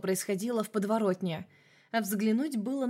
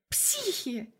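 cursing; 7 semitones higher than usual. A narrator's reading. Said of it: "ругалась она".

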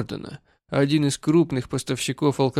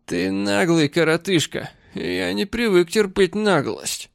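put-on angry drunk; 4 semitones higher, slower than usual. Drunk man insults the mayor.

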